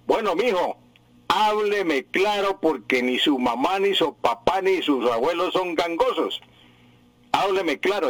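imitating grandma insisting on clear speech; a hint of a firm grandmother; grandmother's admonition. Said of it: "mi abuela que me decía".

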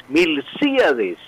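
Milcíades said slowly, stress hit on the í. Shown as a demonstration. Teacher on the radio correcting the name, slow and careful. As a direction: spell out Milcíades with the weight on the í. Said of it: "con acento en la I de sí".

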